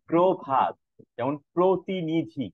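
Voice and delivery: প্রভাত, প্রতিনিধি slowly with pro-; syllable by syllable: pro-bhat, pro-ti-ni-dhi; model pronunciation. Shown as a demonstration. Teacher gives example words for the rule, slow model pronunciation. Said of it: "তাহলে সেটা হয়ে যায় প্র".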